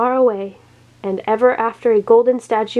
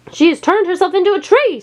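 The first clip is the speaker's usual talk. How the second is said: screamed; 9 semitones higher than usual. A narrator's reading. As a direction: shriek in alarm. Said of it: "screamed the charlatan".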